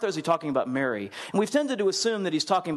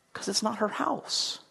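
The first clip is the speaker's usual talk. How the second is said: slow and softer, drawn out; slow knowing answer; 6 semitones higher, 4 dB quieter, slower than usual. Acted. Preacher answering his own question to the congregation, slow and soft. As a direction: let the answer land slowly.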